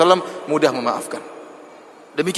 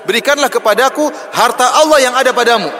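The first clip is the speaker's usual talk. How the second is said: higher, louder rough demand; kasar Bedouin demand; 6 semitones higher, 4 dB louder than usual. Retold or imitated. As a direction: bark it like a rude Bedouin. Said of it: "Dan ngomongnya pun kasar". (tuntutan kasar yang lebih keras)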